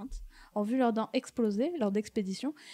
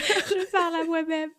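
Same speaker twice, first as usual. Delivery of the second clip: slow, laughing aside; 7 semitones higher, 5 dB louder than usual. Real, not acted. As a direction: giggle through the words. Rit en parlant. (en riant, lentement)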